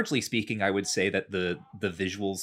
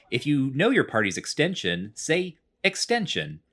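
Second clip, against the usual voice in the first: automated phone voice; 6 semitones higher than usual. Retold or imitated. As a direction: read it like an automated bank teller. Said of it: "that's how he talks".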